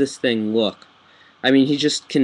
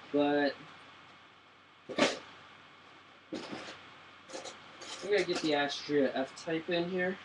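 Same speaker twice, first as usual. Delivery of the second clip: speaking away from the microphone; far from mic; 3 semitones higher, 14 dB quieter than usual. Real, not acted. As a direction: talk from across the room. Bring you over to my shelves.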